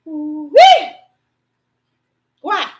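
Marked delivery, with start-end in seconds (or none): 0.0-0.9 amazed whoop. Real, not acted. Preacher reacts to the sword verse.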